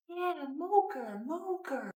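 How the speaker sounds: excited. Real, not acted. Excited confirming to toddler.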